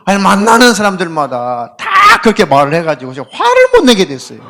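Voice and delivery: laughs while protesting; laughing. Real, not acted. Pastor laughing as he tells the congregation, laughing. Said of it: "laughing complaint to congregation".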